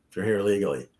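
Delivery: ordinary talk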